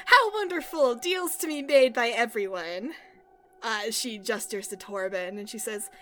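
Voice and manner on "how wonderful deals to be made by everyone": high, loud theatrical delight; joyous. Acted. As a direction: exclaim it like an overjoyed deal-maker. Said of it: "she laughs joyously".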